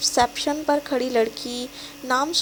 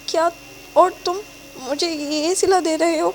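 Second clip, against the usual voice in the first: sobbing; 4 semitones higher than usual. Acted. Betrayed girlfriend pleading with him, tearful. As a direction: cry out betrayed. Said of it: "وہ ہچکیوں سے روتے ہوئے کہتی ہے".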